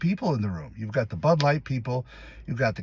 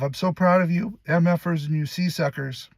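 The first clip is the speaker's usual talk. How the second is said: higher-pitched, mildly emotional retold take; choked up; 5 semitones higher than usual. Actor re-enacting his audition as boss, mildly choked up. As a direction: act a little overcome with pride. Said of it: "when you get choked up".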